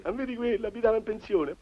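mocking gossip. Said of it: "tutti a ridere".

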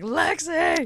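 high excited call of a name; excited squeal. Retold or imitated. Excited recognition of a friend.

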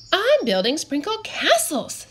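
put-on high, sweet little girl voice; girly high voice. A narrator's reading. Cupcake character voice.

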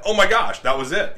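high, loud dismayed cry; dismayed surprise. Retold or imitated. Imitating a beginner losing the fish, high dismayed cry. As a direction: moan it as the chance slips by. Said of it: "You're like".

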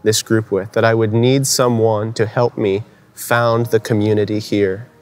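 earnest retelling of a solemn confession; so serious. Retold or imitated. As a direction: confide a long-held longing, measured, with long pauses. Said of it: "he looked at me so seriously and he said".

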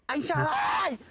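faint shout from far off; distant yelling. Acted. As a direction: holler as if from down the lane. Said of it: "mà gào ghê thế".

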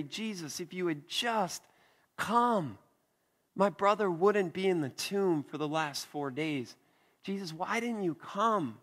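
a hint of Mary weeping as she pleads; tearful plea. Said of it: "her comment to Jesus was loaded with weeping".

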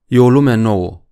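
slow, deliberate, projected announcement; forced calm. A narrator's reading. Captain addressing his men in a new world, effortful calm. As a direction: address the crew slowly, trying to sound calm. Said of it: "silindu-se să vorbească foarte calm".

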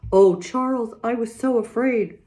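high, loud, shaken cry of fear; frightened pleading. Acted. Ma telling Charles how scared she was, high frightened voice. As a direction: let the fear spill out to Charles.

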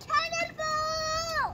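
cannonball yell. Pretend. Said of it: "you gotta say cannonball".

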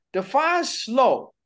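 slow, drawn-out sassy challenge; mildly cheeky kid's demand. Acted. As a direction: imitate a child talking back, stretching the words. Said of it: "sound like we sassy".

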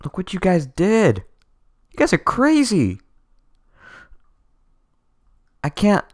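high-pitched, incredulous gushing; overwhelmed amazement. Real, not acted. Streamer marvelling at what the fans did, overwhelmed amazement. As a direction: gush at the top of your voice range.

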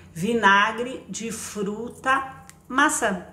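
slow, careful label reading; read slowly off the label. Shown as a demonstration. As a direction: spell it out word by word. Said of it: "É assim mesmo que vem escrito".

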